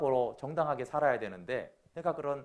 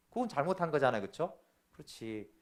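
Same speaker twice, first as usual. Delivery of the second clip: ordinary talk, nothing marked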